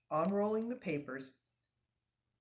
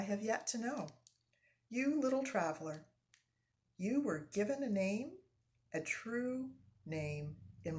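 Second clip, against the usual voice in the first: lightly voiced young Indian, tender; tender farewell. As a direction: speak it gently, like a blessing. Indian's quiet song to boat.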